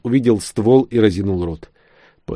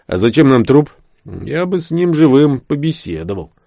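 a higher, louder rough soldier arguing; a lightly voiced soldier, higher and louder; Sven's voice; 6 semitones higher, 4 dB louder than usual. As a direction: push back at Vlada, exasperated. Sven argues about the prisoner.

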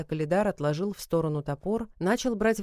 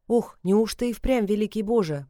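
awed stammer; 3 semitones higher, 5 dB louder than usual. Acted. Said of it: "пролепетала Саша".

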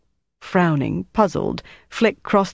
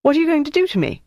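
high, anxious plea; fearful question, pitched up; frightened woman asking her fate; worried; 12 semitones higher, much faster than usual. Acted. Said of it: "Denise began to look worried".

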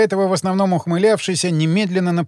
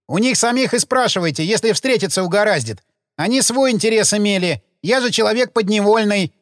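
a gravedigger voiced higher, aggrieved and defensive; sullen gravedigger; 4 semitones higher than usual. Gravedigger protesting his innocence to detectives, aggrieved. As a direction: play the put-upon worker justifying himself.

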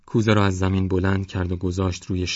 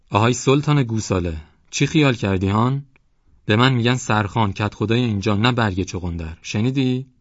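loud, boastful bellow at the door; shouting headman; 4 semitones higher, 5 dB louder than usual. Acted. Headman shouts threats at the closed door. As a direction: threaten the young man across the door.

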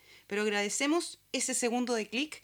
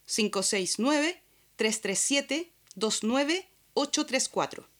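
ad read. Acted. Host reading a sponsor spot for the eco store, in an ad voice. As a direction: pitch the store warmly to listeners.

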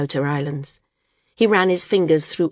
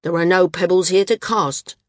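short, louder, irritated retort; snapping; 2 semitones higher, 5 dB louder than usual. Acted. The landsman rebuffs the outer islander, sharp and louder. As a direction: cut him off sharply. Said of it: "the landsman snapped".

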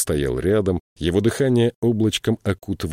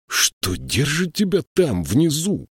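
surprised; 8 semitones higher, slower than usual. A narrator's reading. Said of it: "удивлённо спросил Слудик".

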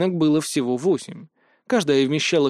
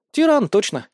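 agreeing; 8 semitones higher, 4 dB louder than usual. A narrator's reading. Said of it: "подтвердила Устинья".

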